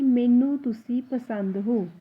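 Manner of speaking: slow, careful मैनू तुसी पसंद हो; teacher modelling slowly; slow model sentence. Shown as a demonstration. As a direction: dictate slowly for learners. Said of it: "तो पूरी line कैसे बोली जाएगी".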